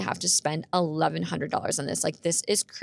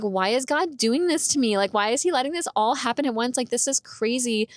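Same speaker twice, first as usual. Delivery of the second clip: retold upset; 6 semitones higher than usual. Upset believer questions God about the car, retold pleading. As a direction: plead why, mildly exasperated. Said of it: "like, really upset".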